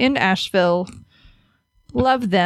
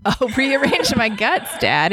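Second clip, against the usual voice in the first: mock seductive. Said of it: "I kinda creep myself out just by saying it".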